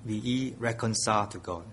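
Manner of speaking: quiet, earnest plea; soft pleading. Acted. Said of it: "we plead with men".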